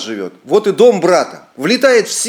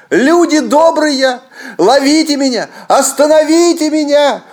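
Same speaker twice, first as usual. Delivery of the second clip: panicked cry for help; 12 semitones higher, 5 dB louder than usual. A narrator's reading. Akim crying to villagers to stop him, panicked shout. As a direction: beg the villagers to catch you. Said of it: "кричит".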